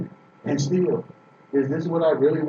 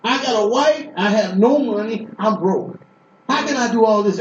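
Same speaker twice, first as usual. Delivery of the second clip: higher, pleading cry to God; desperate plea to God; 4 semitones higher than usual. Retold or imitated. Preacher retelling how he pleaded with God, desperate. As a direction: beg God like you're broke and scared. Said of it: "I kept talking to him just like this".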